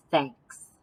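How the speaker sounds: lightly voiced gruff bear; a hint of a shy bear; low bear voice.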